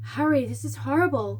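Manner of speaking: flat monotone put-on voice. Retelling a film scene's commentary line: imitating Hermione's monotone voice. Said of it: "monotone voice".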